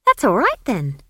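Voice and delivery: put-on high, loud child's relief; relieved. A narrator's reading.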